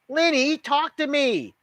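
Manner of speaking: high, loud, pleading call; urgent plea. A narrator's reading. Girl pleading with her silent best friend, high and urgent.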